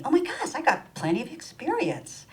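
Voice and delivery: a comic lightbulb moment; mock realization. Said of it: "it dawns on me".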